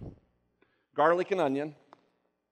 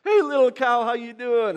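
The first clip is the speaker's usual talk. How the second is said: much higher and louder, sing-song cooing; cooing at a cow; 9 semitones higher, 9 dB louder than usual. Retold or imitated. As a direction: coo at the cow like a pet. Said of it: "He's like".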